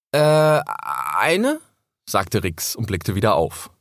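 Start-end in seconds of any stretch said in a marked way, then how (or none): 0.1-1.6 high, hesitant little fox; young fox voice. Acted. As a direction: ask shyly like a small cub. Cub answers unsure.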